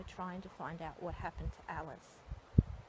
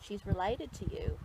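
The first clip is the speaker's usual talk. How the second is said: much louder, insistent and firm; firm, loud address; 12 dB louder than usual. Real, not acted. Medium loudly telling John about Skeeter. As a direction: make him listen, speak up strongly.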